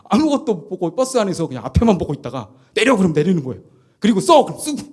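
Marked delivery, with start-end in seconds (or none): 2.7-3.0 barked order. Retold or imitated. 선임이 버스에서 명령하는 장면. 4.2-4.4 barked order. Retold or imitated. 선임이 신병에게 명령하는 장면.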